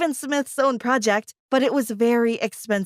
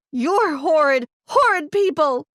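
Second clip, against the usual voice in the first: rising, louder angry outburst; angry yell; 4 semitones higher, 3 dB louder than usual. Acted. Daughter yelling at her greedy parents, angry. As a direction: hurl the insult, voice climbing. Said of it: "I yelled at them".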